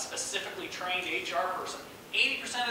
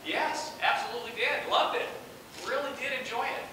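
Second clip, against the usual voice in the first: higher, eager agreement; retold enthusiastic yes; 5 semitones higher than usual. Candidate telling the interviewer he enjoyed last night, eager and higher. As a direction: agree readily, pitched up. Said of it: "he asked".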